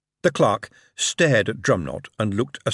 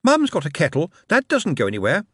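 put-on child's voice; 8 semitones higher than usual. A narrator's reading. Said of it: "who said".

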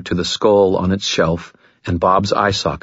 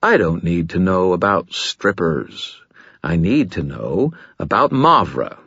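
reasonable tone. Acted. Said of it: "very reasonable tone of voice".

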